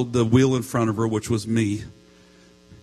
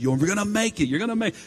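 encouraging; 9 semitones higher, faster than usual. Retold or imitated. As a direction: imitate a husband cheering on his wife. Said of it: "I'm trying to encourage her".

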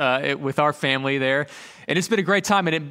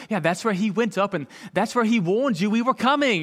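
higher, imitated British tour guide; British accent; 4 semitones higher than usual. British mom pointing out Old North Church, imitated British accent. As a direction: put on a British mom's accent, pitched up. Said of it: "in her British accent".

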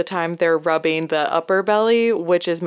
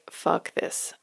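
very soft, voiceless aside; muttered exasperation; 10 dB quieter than usual. Retold or imitated. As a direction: mutter it under your breath. Retold private thought of exasperation.

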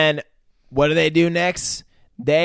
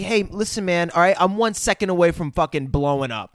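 higher-pitched mock cockiness; arrogant; 4 semitones higher than usual. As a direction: act out an arrogant warning. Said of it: "John's got the arrogance".

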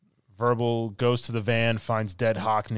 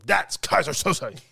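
high, slow proclamation; drawn-out, raised identification; mock accusation; 7 semitones higher, 4 dB louder, slower than usual. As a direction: act out fingering the culprit. Acts witness identifying the villain.

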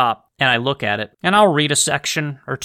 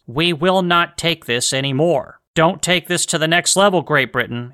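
roaring rallying speech. Retold or imitated. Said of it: "John Adams basically saying".

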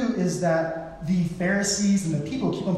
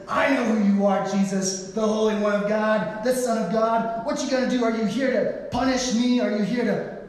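hammed-up demon, raised pitch throughout; demon's challenge; 5 semitones higher than usual. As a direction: taunt Jesus as a cornered demon. Demon speaking through a man.

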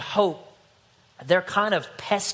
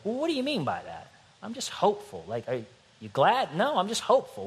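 mock puzzled exchange; 6 semitones higher, faster than usual. Acted dialogue about being hopeful.

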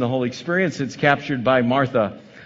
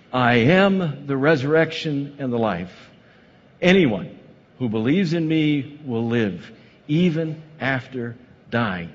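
solemn Jesus; slower than usual. Acted. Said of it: "Jesus told her".

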